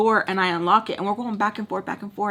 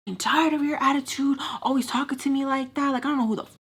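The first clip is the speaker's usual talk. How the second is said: higher-pitched mad rant; retold fed-up complaint, pitched up; retold anger; 5 semitones higher than usual. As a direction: act out being fed up with his attitude. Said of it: "I was so mad".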